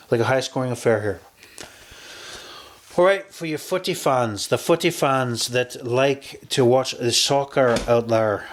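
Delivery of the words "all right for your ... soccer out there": put-on a playful British accent for the footy fans; mock British sportscaster, lightly done; best British accent. Betting host to soccer fans, in a hammed-up British accent. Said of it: "I'm doing my best British accent".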